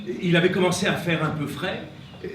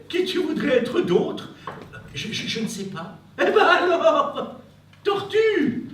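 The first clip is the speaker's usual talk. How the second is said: laughing; 10 semitones higher, 6 dB louder than usual. Acted. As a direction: laugh it out, amused. Animal laughs at tortoise.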